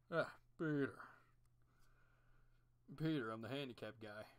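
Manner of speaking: lightly put-on wheelchair neighbour voice; a hint of a different cartoon voice; Joe impression. Joe talks to Peter about his legs, lightly voiced.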